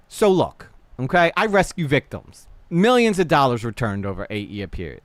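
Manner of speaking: put-on imagined tough-talking New York accent. Streamer reading his email as she imagines him, New York accent. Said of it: "he has a New York accent here".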